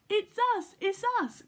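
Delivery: high, loud happy cry; excited cry. A narrator's reading. Little yellow bears reveal themselves to the judges, excited cry. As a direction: pop out and give yourselves away. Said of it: "cried the little yellow bears".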